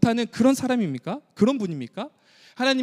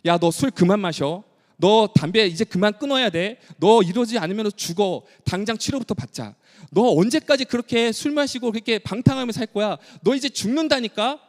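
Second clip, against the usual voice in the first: pleading with a friend; 2 semitones higher than usual. Acted. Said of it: "그 친구에게 이렇게 말하죠".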